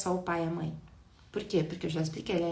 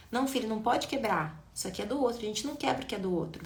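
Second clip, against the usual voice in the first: calm guiding parent; 2 semitones higher, faster than usual. Shown as a demonstration. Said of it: "existe uma orientação".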